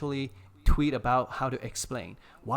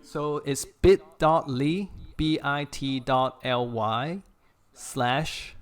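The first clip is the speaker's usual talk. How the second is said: slow, careful letter-by-letter dictation; measured read-out of a web address; dictating a link; 4 dB louder, slower than usual. Real, not acted. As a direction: spell it out slowly for people writing it down.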